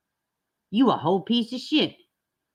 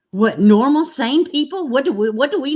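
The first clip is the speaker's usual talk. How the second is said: sarcastic; 6 semitones higher, 6 dB louder than usual. Real, not acted. Sarcastic outburst.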